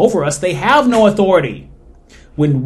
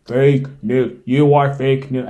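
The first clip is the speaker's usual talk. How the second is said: lightly voiced half-hearted Trump; a hint of Trump, not really trying; Trump impression; 2 semitones lower, slower than usual. Quoting Trump on fake news, half-hearted imitation. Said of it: "I'm not gonna try to do a good Trump impersonation".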